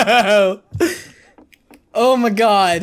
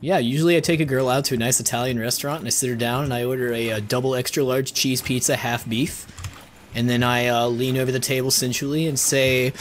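lowered, hammed-up smooth talker; deep mock seduction voice; 10 semitones lower, 4 dB quieter, faster than usual. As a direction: play the smooth date, voice dropped low. Mock romantic dinner story.

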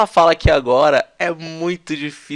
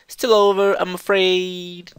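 "Still over, I'm afraid" higher and louder like the clip; higher imitation; 5 semitones higher, 3 dB louder, much slower than usual. Shown as a demonstration. Teacher echoing the clip's girlish line for students. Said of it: "parece uma menininha falando".

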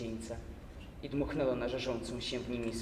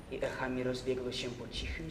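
ordinary delivery

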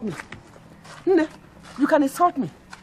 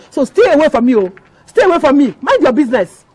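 angry; 4 dB louder than usual. Acted. Co-wife quarrel, shouting back.

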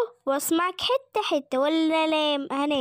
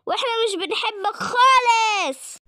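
slow, loud defiance; the kid shouts that nobody likes him; defiant shout; 4 dB louder than usual. Acted. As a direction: tell the villain off loudly. Child tells villain off.

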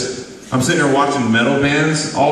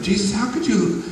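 much higher, scandalized churchy complaining voice; mock religious person; 9 semitones higher than usual. Mocking a religious person complaining to Jesus, much higher scandalized voice. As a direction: play an indignant church busybody questioning Jesus. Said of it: "a religious person be like".

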